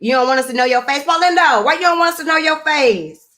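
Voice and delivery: ordinary delivery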